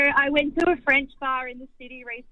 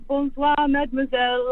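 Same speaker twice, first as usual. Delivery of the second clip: lightly laid-on French waiter voice; mock French charm, Bonsoir, mademoiselle; a touch of put-on French; hammed French accent; 3 semitones higher than usual. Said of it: "he was laying it on".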